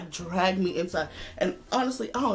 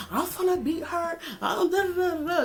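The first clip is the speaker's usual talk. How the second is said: tearful threat; 9 semitones higher than usual. Retold or imitated. Tearful rage on the phone.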